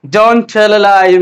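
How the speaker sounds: very slow, DONT leading; slow dictation. Shown as a demonstration. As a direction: dictate it slowly to the class. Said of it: "কি বলবো আমরা".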